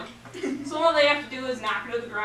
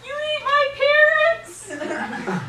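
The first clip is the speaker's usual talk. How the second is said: high, louder wail on the first words; crying gingerbread man; 13 semitones higher, 6 dB louder, slower than usual. Acted. Gingerbread man accuses the witch, wailing high. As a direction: cry it out as an accusing little cookie. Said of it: "Gingerbread Man's crying".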